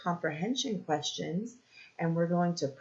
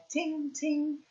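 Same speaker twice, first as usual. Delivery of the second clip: cymbal ting; 8 semitones higher, 6 dB quieter than usual. Shown as a demonstration. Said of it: "touched the cymbal and it went".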